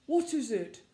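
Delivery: hoarse, loud owl's croak. A narrator's reading. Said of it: "he asked in a hoarse voice".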